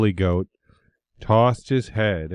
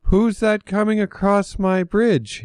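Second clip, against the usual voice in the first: much higher, shaky little ogre voice; timid little ogre; 11 semitones higher than usual. A narrator's reading. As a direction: ogre braves the bigger goat. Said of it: "took a deep breath".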